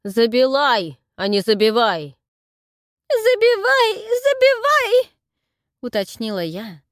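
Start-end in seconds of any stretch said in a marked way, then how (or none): 0.0-2.2 loud, with Забилай said with a burred l; loud correction. Acted. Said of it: "почти оглушил". 3.1-5.1 very high, loud, slow sobbing забивай; loud crying granny, забивай drawn out; old woman's crying. Acted. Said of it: "старческий плач".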